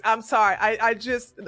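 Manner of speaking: loud, frustrated apology cutting in; fed up, talking over the other guy; exasperated outburst. Real, not acted. Streamer talking over a guest mid-argument, exasperated and loud.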